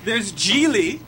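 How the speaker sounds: dry sarcasm on a film title; name it as if it were a gem; sarcastic. Real, not acted. Co-host listing a notorious flop, sarcastic. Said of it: "the sarcasm in his voice".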